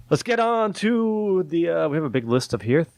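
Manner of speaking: half-asleep jumbled words; tongue-tied mumbled line; garbled. Real, not acted. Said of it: "let me try that again in English".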